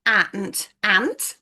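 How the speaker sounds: "ant" with a short a; short a sound. Shown as a demonstration. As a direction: stress the a in "ant". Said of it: "like in the word".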